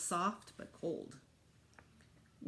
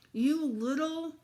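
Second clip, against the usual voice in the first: slow, louder, higher outraged sputter; angry; 8 semitones higher, 6 dB louder, much slower than usual. Acted. Boy with ice down his back sputters at brother, angry. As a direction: splutter at the little brother.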